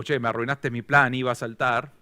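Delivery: annoyed. Retold or imitated. Jumper grumbling at the man who interrupted him. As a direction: grumble like someone whose plan got spoiled. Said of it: "medio como".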